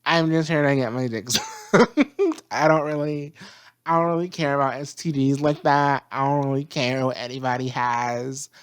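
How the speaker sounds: laid-back, laughing careless dude; careless surfer voice. Retold or imitated. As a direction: shrug it all off, laughing. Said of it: "Mercury is like".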